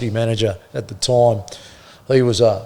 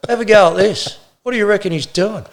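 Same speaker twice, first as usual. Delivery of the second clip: calling out; 8 semitones higher than usual. Retold or imitated. Custody manager calling the officer over, higher excited call. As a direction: get a mate over to see this, raised.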